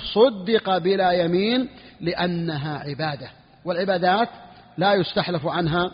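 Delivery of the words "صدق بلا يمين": slow quoted ruling. Shown as a demonstration. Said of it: "قال المصنف".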